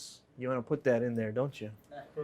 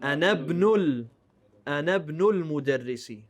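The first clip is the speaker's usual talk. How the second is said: read properly; faster than usual. Shown as a demonstration. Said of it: "how is it supposed to be read?".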